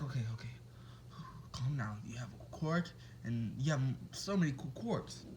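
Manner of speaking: low, soft self-talk; calming himself. Retold or imitated. Deku steadies himself after running, calming down. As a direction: imitate talking yourself down, quietly and low. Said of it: "I just have to calm down".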